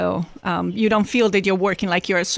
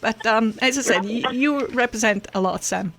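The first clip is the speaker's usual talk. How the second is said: holding back tears while thanking; teary; 4 semitones higher than usual. Real, not acted. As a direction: voice high and breaking with tears. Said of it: "sorry, I'm getting teary".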